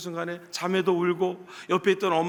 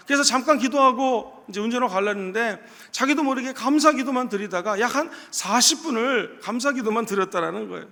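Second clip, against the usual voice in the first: ordinary talk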